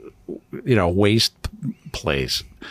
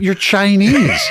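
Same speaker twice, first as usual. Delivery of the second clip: high, louder, cracking up; retold hysterical laughter; 11 semitones higher, 6 dB louder, slower than usual. Patient tells the swab technician what's funny, retold cracking up. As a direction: blurt it out high and burst into laughing. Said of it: "I start laughing hysterically".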